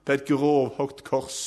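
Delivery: high, forceful sermon storytelling; impassioned preaching. Real, not acted. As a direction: drive the story forward with rising fervour.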